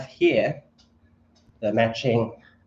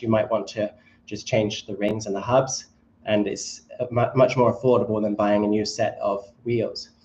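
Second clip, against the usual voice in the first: holding breath. Real, not acted. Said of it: "I'm holding my breath for some reason".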